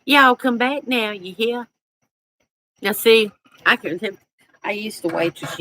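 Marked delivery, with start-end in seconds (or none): 0.0-1.7 lightly hammed-up Southern drawl; Southern accent. Southern hostess calling farewell to guests, playful Southern accent.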